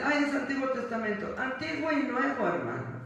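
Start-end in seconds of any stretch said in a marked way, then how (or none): 0.0-1.3 mock dismissive excuse. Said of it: "Y tú me vas a decir".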